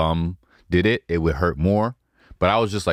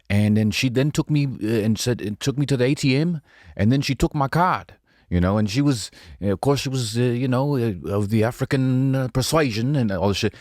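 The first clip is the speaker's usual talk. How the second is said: put-on Australian accent; 6 semitones higher than usual. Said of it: "this one Australian was telling a story".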